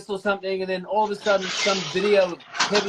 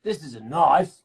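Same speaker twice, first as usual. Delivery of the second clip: repeating the Crocodile Dundee line with more punch, bad Australian accent; 2 semitones lower than usual. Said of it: "I'm even doing an accent really badly".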